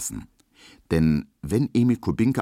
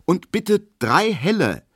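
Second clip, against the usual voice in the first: decisive order, higher and louder; firm; 13 semitones higher, 5 dB louder than usual. Acted. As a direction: settle it firmly. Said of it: "sagt Emil Kubinke bestimmt und so schnell".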